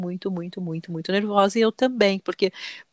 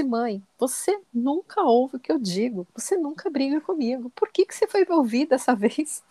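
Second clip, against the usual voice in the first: higher, drawn-out mock complaint; imitated reproach; 5 semitones higher, slower than usual. Mother imitating her son blaming her for listening, reproachful. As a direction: play a child accusing a parent, pitched up and slow.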